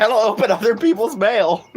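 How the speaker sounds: laughing quote. Retold or imitated. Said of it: "It's like".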